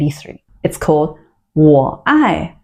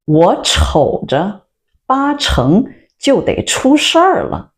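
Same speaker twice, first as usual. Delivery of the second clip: slow teaching demo; 6 semitones higher, slower than usual. Shown as a demonstration. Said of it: "repeats clip line slowly".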